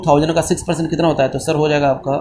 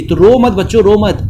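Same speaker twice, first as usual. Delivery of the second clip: mock comforting; 4 semitones higher, 4 dB louder than usual. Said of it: "क्यों आप रो रहे हैं?".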